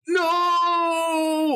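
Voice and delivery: high, panicked no; panicked cry. A narrator's reading. Alex panics at Alexa's threat.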